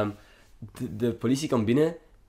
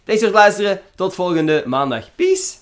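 bright outro pitched up, louder on the first words; mock podcast sign-off; 6 semitones higher, 6 dB louder than usual. Podcast host jokingly ending the show for listeners, upbeat sign-off.

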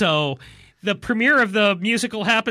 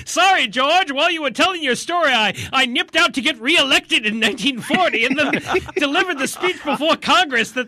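Roosevelt voice; 6 semitones higher than usual. Pretend. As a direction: play the president apologizing sheepishly. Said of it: "to tell Roosevelt".

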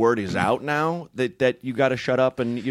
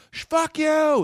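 much higher mock yell; imitated crazy yelling; much slower than usual. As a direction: yell it like a rattled comic. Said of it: "they're yelling and crazy".

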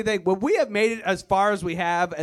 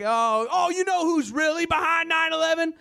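higher, knowing conspiracy voice; conspiracy relative; 9 semitones higher than usual. Retold or imitated. Redneck relative at Christmas, high knowing tone. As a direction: lean in like sharing a big secret. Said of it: "every time it's like".

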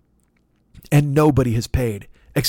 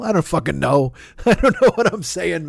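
ordinary talk, nothing marked

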